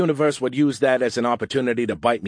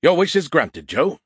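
mock-grand; 6 semitones higher, 5 dB louder than usual. Skippy grandly grants the request.

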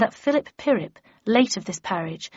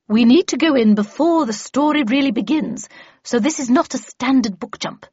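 lightly voiced brisk mentor, louder; brief a trainee firmly, slightly higher; emphatic instructing character voice; Miss Havisham, instructing; 4 semitones higher, 4 dB louder than usual.

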